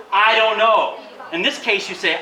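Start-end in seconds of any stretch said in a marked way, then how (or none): 0.1-1.0 demo phrase. Shown as a demonstration.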